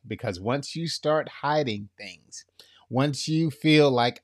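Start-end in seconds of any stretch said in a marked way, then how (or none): 0.1-2.4 whisper. Real, not acted. Sermon on hidden secrets.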